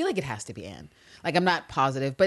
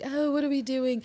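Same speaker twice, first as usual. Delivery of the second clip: high flustered; 9 semitones higher than usual. Retold or imitated. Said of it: "Anne Walker's like".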